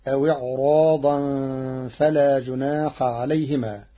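إعراضا recited with a heavy, full-mouthed ra; measured Quranic recitation of أو إعراضا; Warsh recitation. Shown as a demonstration. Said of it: "فتصير".

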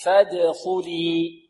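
"فادخلي" slow, with a bounced د; measured model of "فادخلي" for repetition; qalqala demo. Shown as a demonstration. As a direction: draw out "فادخلي", echoing the د. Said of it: "والدال هنا مقلقلة".

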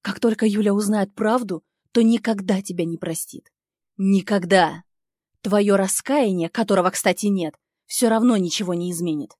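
громче, с нажимом на «Никогда»; бросать слова в ярости; в злости. Acted. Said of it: "едва соображаю от злости". (героиня в злости угрожает Нику)

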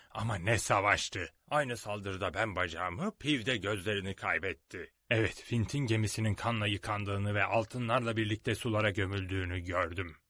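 a hint of a pirate telling war tales; lightly voiced pirate Silver, reminiscing. Silver recalls Flint's battles to the crew, lightly voiced, low-key reminiscing.

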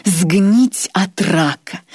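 Сгнить от рака drawn out very slowly; savoured slowly. Acted. Irma repeats his fate to Grois, savouring it. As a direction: linger on every word with pleasure. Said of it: "с явным удовольствием".

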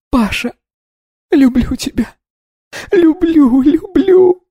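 high, rising to a loud shout; anguished cry. A narrator's reading. Polina screams her love for Pasha, sobbing. Grieving woman cries out.

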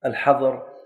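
normal talking voice

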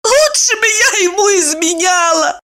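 high crying shout; sobbing high cry; tearful outburst. A narrator's reading. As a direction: wail it in despair. Despairing outburst in tears.

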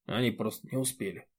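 almost no voice, just breath and lips; soundless reply. A narrator's reading. Roman answers his friends soundlessly, grieving. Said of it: "беззвучно ответил Роман".

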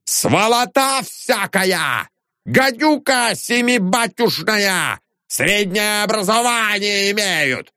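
high-pitched, slow scandalous howling; raging janitor. A narrator's reading. Janitor standing on the sign, abusing the tenants. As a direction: rant like a drunk brawler. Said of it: "вопил дворник".

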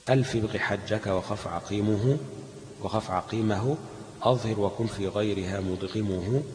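measured, slow chant of a teaching poem; verse recitation. Acted. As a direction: recite the mnemonic poem line by line. (تلاوة متن شعري بتأنٍّ)

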